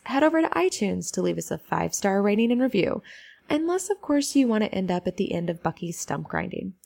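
lightly polished customer service voice; polite phone voice read; telephone voice. Acted. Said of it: "that's my telephone voice that I talk to people at work with".

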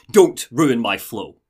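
lightly acted annoyed rebuke; irritated snap. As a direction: cut him off, each word weighted. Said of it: "He snaps at him".

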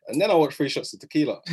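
normal talking voice

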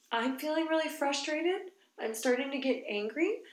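name feelings like a patient mom; mild parent explaining; calm parent voice. Retold or imitated. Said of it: "I was like".

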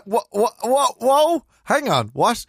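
high, loud, drawn-out whoa; stunned double take. Real, not acted. Friend halting the story in surprise, high and loud. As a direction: stop her mid-story in disbelief.

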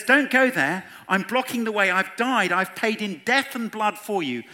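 high, loud, impassioned plea; urgent warning. Acted. Jesus blocks the way to hell, urgent loud warning. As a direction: cry out to stop someone in their path.

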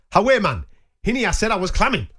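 put-on Geordie; Newcastle accent. Shown as a demonstration. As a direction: imitate a Geordie local chatting. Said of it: "this is a Newcastle thing".

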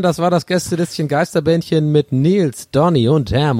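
smooth radio host sign-off. Shown as a demonstration. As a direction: talk like a DJ closing the show. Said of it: "Und ich hab meine Radiostimme aufgesetzt".

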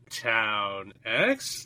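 put-on puzzled French-accented question, rising sharply; imitated French accent. French passenger baffled by his stop, imitated French accent. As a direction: repeat it baffled, mimicking a French speaker. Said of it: "no amount of French accent".

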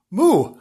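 high, loud, unconvincing moo; bad cow moo. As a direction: attempt a cow and miss. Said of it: "I can't do a cow".

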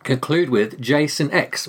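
slow, careful, deliberate words; careful retry. Shown as a demonstration. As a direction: slowly spell out each word. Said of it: "Let me try again".

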